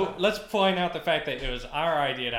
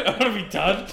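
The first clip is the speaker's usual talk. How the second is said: louder mock whine echoing back; 5 semitones higher, 4 dB louder than usual. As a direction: parrot the whine back teasingly. Friend echoes the plea mockingly.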